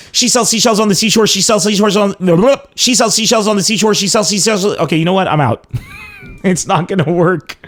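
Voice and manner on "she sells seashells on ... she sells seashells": quick, raised-pitch attempt that starts to stumble; hurried repeats, tongue getting tangled; rushed tongue twister. Shown as a demonstration. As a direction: race the twister until it trips you up. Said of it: "I'll do a tongue twister challenge".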